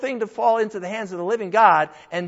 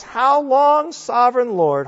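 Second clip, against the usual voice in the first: raised, high scriptural cry; loud calling out; 4 semitones higher, 7 dB louder, slower than usual. Acted. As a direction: cry out to heaven, loudly. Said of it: "called out in a loud voice".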